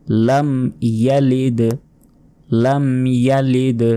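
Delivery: ইয়ালিদ ending with a jolted d; bounced final d. Shown as a demonstration. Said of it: "এখানেও ধাক্কা দিতে হবে".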